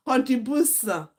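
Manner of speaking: a hammed-up fake posh accent on "Contribution"; mock the auntie stretching "Contribution"; put-on accent. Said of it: "that big auntie that used to form accent".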